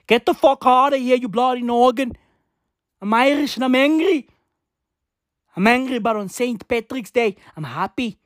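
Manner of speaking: mock-angry fake Irish accent, hammed up; bad Irish accent. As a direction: bark it as a cartoon angry Irishman. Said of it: "What accent is that?".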